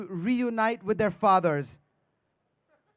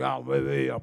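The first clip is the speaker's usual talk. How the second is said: French "oui"; 9 semitones lower than usual. Retold or imitated. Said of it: "They're like".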